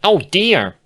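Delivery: high, loud startled cry; surprised gasp. Acted. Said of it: "a small gasp of surprise".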